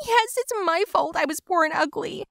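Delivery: bitter sarcasm. Acted. Gina bitter in quarrel.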